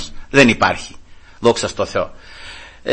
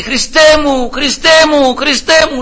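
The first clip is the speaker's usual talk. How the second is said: high loud weeping cry; 12 semitones higher, 4 dB louder, slower than usual. Retold or imitated. Weeping father crying out to Christ, loud and high. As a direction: wail Χριστέ μου through tears. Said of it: "να φωνάζει".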